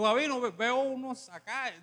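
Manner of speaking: lightly put-on prophetess voice; imitating pastor's wife. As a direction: speak differently, mimicking the wife's prophecy. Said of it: "perdón si hablo diferente".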